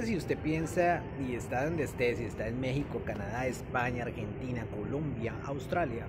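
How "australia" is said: "Australia" with full Au and l; Spanish pronunciation. Shown as a demonstration. Teacher listing countries, Spanish-style "Australia". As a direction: say "Australia" the Spanish way, every letter sounded. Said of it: "no se dice Australia".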